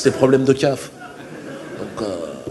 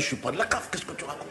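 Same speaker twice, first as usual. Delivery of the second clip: mild alien voice; 12 dB quieter, faster than usual. Retold or imitated. Alien answers the friend.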